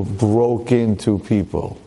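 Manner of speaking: broke into people said slowly with weight on broke; slow heavy repeat; slowed emphatic repeat. Shown as a demonstration.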